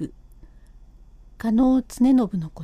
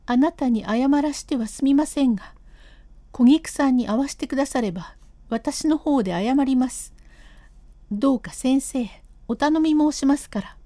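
lightly raised voice of an insistent wife; stubborn wife; 2 semitones higher than usual. Acted. Wife refusing to leave without seeing Kogiku, lightly raised stubborn voice. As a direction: dig in your heels and refuse to leave.

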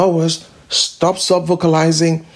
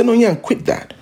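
firm commanding self-talk, a little higher; mock telling your own legs to stop shaking; stern self-rebuke; 6 semitones higher than usual. Shown as a demonstration. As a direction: scold yourself higher, like ordering a pest off.

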